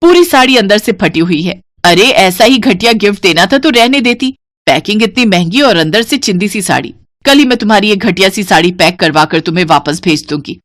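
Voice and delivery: yelling. Acted. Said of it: "खूब चिल्लाती है".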